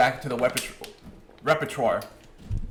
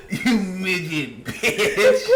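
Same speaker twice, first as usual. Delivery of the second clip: laughing; 2 semitones higher, much slower than usual. Retold or imitated. Mocking a scene from video.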